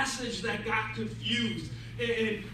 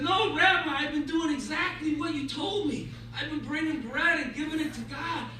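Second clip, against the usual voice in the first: higher-pitched, mildly indignant defence; earnest protest; 5 semitones higher than usual. Acted. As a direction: insist on your innocence to the rabbi. Enrique protests to rabbi.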